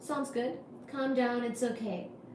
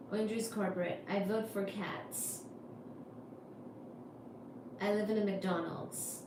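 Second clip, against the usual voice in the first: soft sleepy voice; 3 semitones lower, 8 dB quieter than usual. Shown as a demonstration. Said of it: "kitty cats like my voice".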